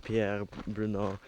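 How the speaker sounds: lightly put-on French accent on the name. Vlogger retelling the trappers' story, mock French accent. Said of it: "do that with an accent".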